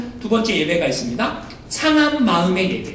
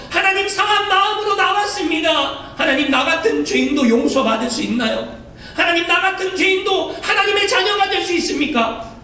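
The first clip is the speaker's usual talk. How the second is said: higher, earnest pleading prayer; broken-hearted plea; 7 semitones higher than usual. Retold or imitated. 상한 마음으로 하나님 앞에 나와 간절히 묻는 기도. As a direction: come before God with a crushed heart asking forgiveness.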